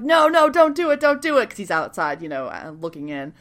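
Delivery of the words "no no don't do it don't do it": high-pitched urgent warning; imitated frantic "don't"; mock pleading. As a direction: plead to stop him, pitched up. Matt pleading in retold scene.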